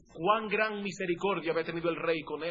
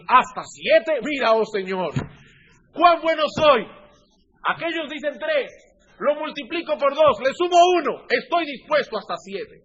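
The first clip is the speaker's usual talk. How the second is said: higher, louder, proudly showing off his goodness; boastful Pedro; 5 semitones higher, 6 dB louder than usual. Acted. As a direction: play the self-satisfied disciple bragging to the Lord.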